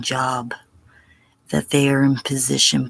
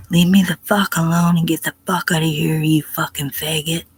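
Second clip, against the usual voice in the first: fast, fierce retold telling-off; retold outburst. To the guy at her bunk, a fast retold angry outburst. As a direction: snap it out like you've lost patience. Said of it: "really flipped out at him".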